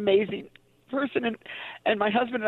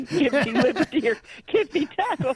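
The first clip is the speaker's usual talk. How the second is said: laughing; 4 semitones higher than usual. Retold or imitated. Laughing at her young self.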